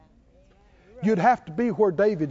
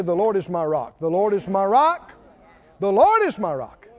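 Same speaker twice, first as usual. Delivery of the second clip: confident declaration. Shown as a demonstration. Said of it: "you gotta throw 'em on Him and say".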